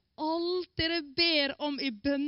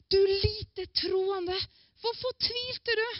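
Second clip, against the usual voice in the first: higher, very slow reproachful question; gentle rebuke; 9 semitones higher, slower than usual. Acted. Jesus to Peter, who has just sunk: slow rebuke. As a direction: stretch each word like a disappointed teacher.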